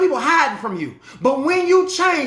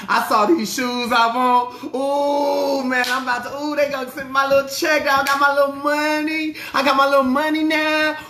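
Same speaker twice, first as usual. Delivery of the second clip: excited spender; 3 semitones higher than usual. Retold or imitated. Mock congregant boasting about money.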